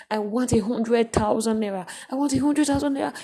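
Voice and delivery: whiny "I want a hundred thousand naira"; mock pleading. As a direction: play the insistent asker. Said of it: "for emphasis, let me just give a mention".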